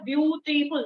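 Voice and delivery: ब्यूटीफुल in three distinct beats, ब्यू-टी-फुल; firm three-part ब्यूटीफुल; three syllables. Shown as a demonstration. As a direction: mark each syllable of ब्यूटीफुल. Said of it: "ये तीन syllable है".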